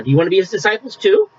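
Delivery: a touch of irony, question lifting at the end; mild ironic jab, rising at the end. Retold or imitated. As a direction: lightly needle them with mock innocence. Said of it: "perhaps with a little bit more of irony".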